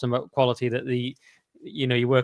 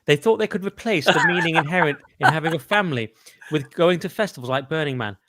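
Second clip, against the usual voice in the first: Adam Curtis narration; 3 semitones higher than usual. Retold or imitated. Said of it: "Now I'm picturing the Curtis".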